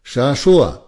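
the lieutenant threatening the whole squad, shouting; angry shout. A narrator's reading. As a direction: shout the threat across the yard. Officer yelling at departing soldier.

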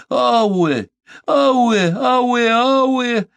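high, loud rising wail; keen out the grief; lamenting cry. A narrator's reading. Omaata crying out in grief, clutching her head. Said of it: "закричала она вдруг".

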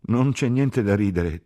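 high, loud, slow reproof; indignant rebuke. A narrator's reading. Ferguson rebukes Catherine for laughing, indignant. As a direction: scold the laugh, outraged.

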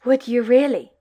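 a touch of giddy delight; almost giddy. Acted. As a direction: barely hold back the glee. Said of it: "Almost giddy".

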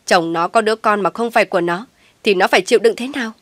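fast, loud angry shout. Acted. Mother shouts at daughter about her sister. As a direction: yell at her to think of others. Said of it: "cô quát lên".

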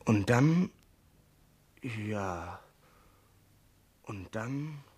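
fading into silence. Acted. Sailor breaks off his confession, voice fading away. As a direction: let the words die out.

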